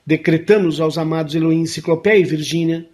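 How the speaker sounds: steady, even prayer-like decree; formal invocation. Acted. Host leads listeners in an invocation for the Amazon, solemn and even. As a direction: recite the decree solemnly and evenly.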